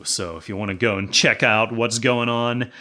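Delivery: winded, gasping between phrases; out of breath. Real, not acted. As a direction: talk while catching your breath. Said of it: "I'm out of breath".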